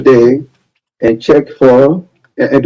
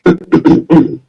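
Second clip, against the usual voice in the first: Taylor throat clearing. Retold or imitated. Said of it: "Let me get the Taylor intro".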